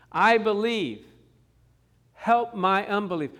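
"I believe. Help my unbelief." cried out loud in earnest; crying plea. Retold or imitated. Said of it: "The man was crying".

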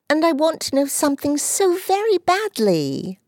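put-on high girlish voice, coaxing and begging; little girl's high pleading voice. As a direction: wheedle him like a spoilt sister. Dulcie pleading with Dick.

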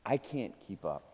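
hushed confession to the room; whispering a secret. Real, not acted. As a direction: drop the voice, sharing a secret. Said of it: "but don't tell anyone".

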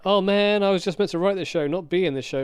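breezy celebrity impression, lightly done; mock J J Abrams. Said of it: "That's how J J Abrams speaks".

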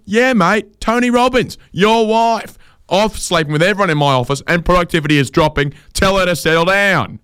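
very high, fast blokey voice; squeaky boss. Retold or imitated. Boss on the phone confirming the affair, squeaky and high.

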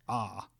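"ah" as an open Spanish a; Spanish ah vowel. Shown as a demonstration. Lecturer demonstrating the Spanish vowel, open ah. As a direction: sound out "ah" like Spanish. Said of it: "in Spanish".

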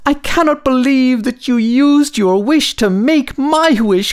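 very high cheerful little voice; squeaky high tiny star; sparkly tinkling star voice. Acted. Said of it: "He said".

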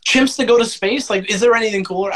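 high, eager hype; excited. Real, not acted. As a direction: sell it like the coolest thing ever. Excited praise of Space Chimps.

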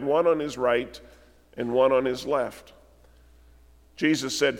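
measured, solemn reading of the passage; scripture reading. Acted. Preacher reading scripture to the church, solemn and measured. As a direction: read the Gospel to the congregation gravely. Reads Luke's crucifixion account aloud.

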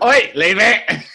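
slow laughing protest. Real, not acted. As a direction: laugh through a mock scolding. Laughing mock reproach.

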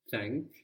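"Thank" with a clear English TH; TH sound. Shown as a demonstration. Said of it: "English T H becoming D in German".

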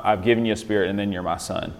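brisk, with no word singled out; wrong-order reading. Shown as a demonstration. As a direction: rattle it off as the mistaken version. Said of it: "It's not".

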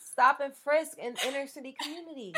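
imitating Trump, laughing through it; hammed-up Trump, cracking up mid-line; a laughing mock Trump rant; mock Trump quote. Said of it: "This man said".

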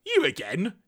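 mildly exasperated mock brush-off; annoyed villain. Galvatron brushing off Zarak's warning, annoyed. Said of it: "Galvatron is not happy about".

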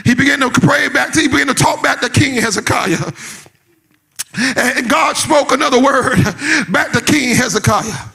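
driving sermon storytelling in punched phrases; preaching. Real, not acted. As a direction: tell the scripture with preacher's urgency.

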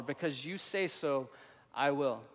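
quiet sincere repeat. Shown as a demonstration. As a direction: say it gently, as a personal vow. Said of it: "That's the life of a Jesus follower".

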